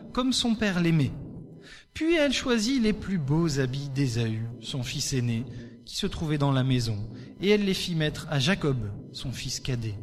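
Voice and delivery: steady storyteller reading of Genesis; bible reading. Acted. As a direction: read the passage like a story to the congregation. Scripture reading over music.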